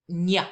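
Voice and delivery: "nya" with the tongue flat on the palate; ñ sound. Shown as a demonstration. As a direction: say "nya" as in canyon. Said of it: "squiggly line over the N is gonna sound like".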